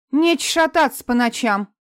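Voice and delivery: выше и громче, грубо; гаркни как сердитая медсестра; рявкнула. Acted. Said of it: "рявкнула сестра". (медсестра рявкает на Марину, громче и выше)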